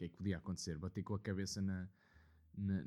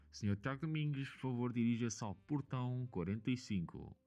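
boarding call over the PA; airport announcement; 2 semitones higher than usual. Retold or imitated. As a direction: read it like a gate announcement. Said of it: "voltarem a dizer o meu nome".

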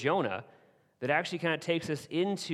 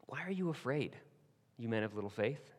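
soft and much quieter, gently reassuring; Jesus calmly reassuring his disciples; calming words; 7 dB quieter than usual. Acted. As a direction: settle frightened friends with a calm hush. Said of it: "some of the most calming words".

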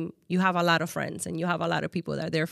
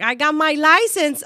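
retold excited news; 8 semitones higher, 6 dB louder than usual. Retelling friend's proud license news.

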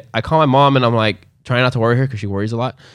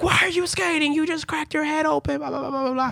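high, softer nagging mom imitation, trailing into blah blah; mock scolding mom; 6 dB quieter than usual. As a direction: play the fussing mother in a squeaky voice. Mom scolds him for skating.

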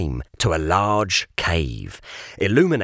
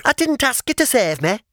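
quick, higher, defiant snap; defiant pig; 14 semitones higher, faster than usual. Acted. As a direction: spit it back and run. Pig's defiant retort.

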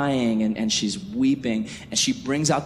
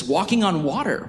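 amazed; 6 semitones higher than usual. Retold or imitated. Repeats phrase in rising amazement.

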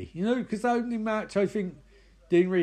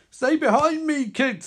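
put-on higher, louder call to the kids; protective heroine; 8 semitones higher, 5 dB louder than usual. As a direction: shield the children with a raised voice. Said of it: "says Airman Woman".

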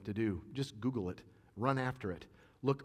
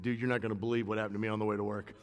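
excited coworker story; faster than usual. Retold or imitated. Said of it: "I bet that dude got to work and said".

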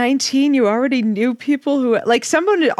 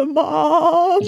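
laughing; 6 semitones higher than usual. Real, not acted. Laughing punchline.

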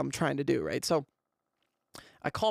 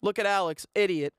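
retold self-scolding, pitched up; mock yell of frustration, higher; 5 semitones higher than usual. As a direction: berate yourself without really shouting. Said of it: "I, like, yell to myself".

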